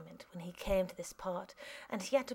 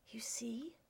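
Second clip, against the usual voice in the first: quietly; 2 semitones higher, 10 dB quieter than usual. Acted. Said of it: "Eugene said quietly".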